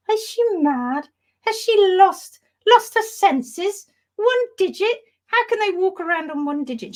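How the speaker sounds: rising to a high incredulous squeal; shocked board members. Acted. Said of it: "the rest of the board are going".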